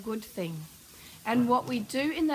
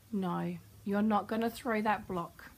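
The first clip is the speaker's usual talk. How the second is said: warm but firm; 3 semitones lower, 3 dB quieter than usual. Shown as a demonstration. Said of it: "in a very warm but firm tone".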